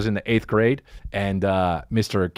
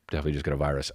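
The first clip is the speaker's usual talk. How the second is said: quiet aside; 8 semitones lower, 7 dB quieter, much faster than usual. Real, not acted. Aside about computer.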